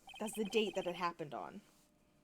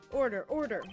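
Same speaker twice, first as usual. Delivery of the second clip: firm judge voice; judge calling order; 4 semitones higher, 9 dB louder than usual. Acted. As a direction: bang the gavel with words.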